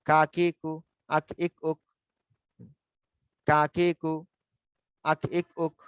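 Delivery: কা, কি, কু held long, আক, ইক, উক stopped on k; pronunciation drill. Shown as a demonstration. Teacher leading everyone to repeat, pronunciation drill. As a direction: chant in even separate syllables for repeating. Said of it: "সবাই উচ্চারণ করেন".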